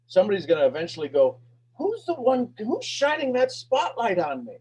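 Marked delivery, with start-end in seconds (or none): 1.8-4.6 much higher, wondering aloud; a lifted, searching question; curious wondering voice. Retold or imitated. An inspired person wondering who lights them, much higher.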